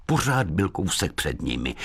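ordinary delivery, nothing marked

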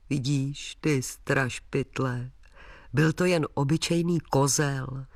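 the father calms his scared son after the goat; gentle teasing father. Acted.

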